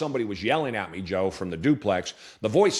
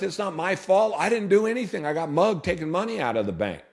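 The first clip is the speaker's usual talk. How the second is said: pitched-up, indignant protest, retold; protesting higher; 8 semitones higher than usual. Beaten teen arguing back at the voice, pitched-up protest. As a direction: insist it's not your fault, voice raised high. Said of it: "and I'm arguing with".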